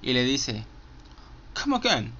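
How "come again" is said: calm menacing quote. Retold or imitated. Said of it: "lo dice de una forma tan calmada".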